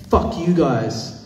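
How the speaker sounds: mocking the heckler's slow sneer; angry curse. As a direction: drag out the insult like a sneering heckler. Angry man curses at them.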